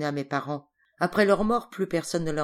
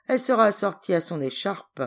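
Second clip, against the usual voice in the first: laughing; 5 semitones higher, 6 dB louder than usual. A narrator's reading. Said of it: "dans un grand rire".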